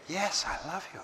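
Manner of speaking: a sincere "Yes, I love you" with the "Yes" lifted gently and said softly; mean every word and say it softly. Shown as a demonstration. Answering "do you love me?" with heartfelt, gentle sincerity. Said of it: "then they believe the totality".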